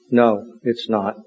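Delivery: slow, low and subdued; ashamed. Acted. Brother confessing to the priest, ashamed. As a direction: admit it with shame. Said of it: "And with shame, he says".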